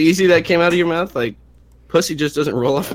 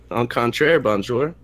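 mock French accent; 2 semitones lower than usual. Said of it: "French people talk".

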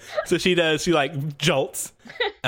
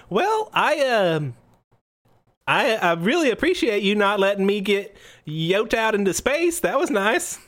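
higher, halting professor voice; grateful but rattled, pitched up; flustered professor; 6 semitones higher than usual. Acted. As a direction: stammer out awkward thanks as a rescued scientist. GM plays the rescued professor.

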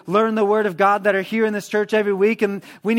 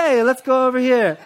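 giddy distraction; 6 semitones higher, 4 dB louder than usual. Acted. Distracted person suddenly veering off.

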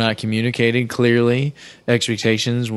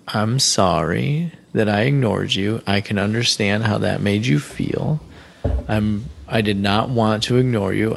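careful gentle apology. Retold or imitated. Husband apologizing to upset wife, gentle and measured. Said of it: "this is the actual tone of voice that you use for apologies".

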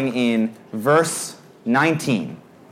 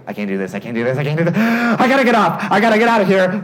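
building panic; 4 semitones higher, faster than usual. Retold or imitated. Rider about to get on a roller coaster, acted panic building. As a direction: act out mounting panic, rising in pitch.

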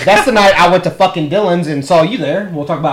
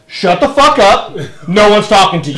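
angry retort; 4 semitones higher, 4 dB louder than usual. Retold or imitated. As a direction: retort much higher and a bit louder, slow on the first line. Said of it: "I go".

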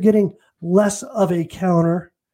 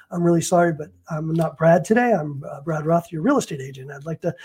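lightly put-on professional agent voice, a bit lower; a hint of businesslike formality; work voice; 3 semitones lower than usual. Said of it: "my voice changes. I have work Brad and regular Brad".

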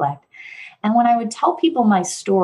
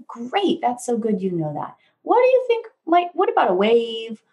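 put-on praising a child; 4 semitones higher than usual. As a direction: gently encourage a toddler. Parent praising then offering options.

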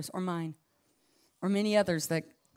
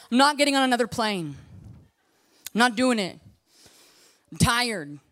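defiant refusal; 3 semitones higher, 5 dB louder than usual. Retold or imitated. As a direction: dig in and refuse. Acts out refusing to travel.

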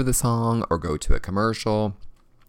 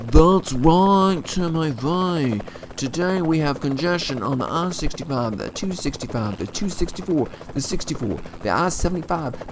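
lightly voiced traffic helicopter guy; a hint of a brisk traffic reporter; mock traffic roundup; 4 semitones higher than usual.

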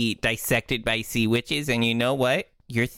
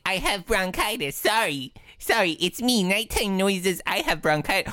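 sick voice; 4 semitones higher than usual. Acted. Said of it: "I'll say".

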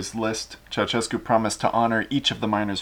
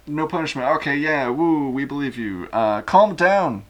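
Ceausescu voice; 4 semitones higher than usual. Acted. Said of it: "Ceausescu then said".

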